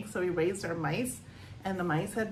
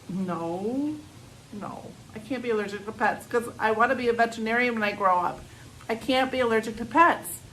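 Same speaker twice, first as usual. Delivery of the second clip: fast, loud, pleading no, no; a girl who wants to be a vet pleading; desperate denial; 3 semitones higher, 5 dB louder than usual. Acted. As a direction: refuse to believe it, rushing. Girl denying her allergy.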